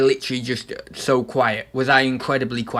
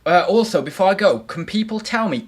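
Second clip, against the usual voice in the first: ordinary talk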